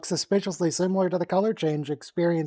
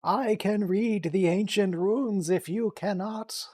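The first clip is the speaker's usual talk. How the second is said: put-on slow, higher old man voice; 5 semitones higher, slower than usual. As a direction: slowly play an ancient rune reader. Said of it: "Oh, he's doing the old man voice".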